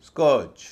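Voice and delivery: स्कर्ज said loud with a long vowel in कर्; correct pronunciation. Shown as a demonstration. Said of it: "वैसे नहीं, स्कर्ज". (स्कर्ज का सही उच्चारण)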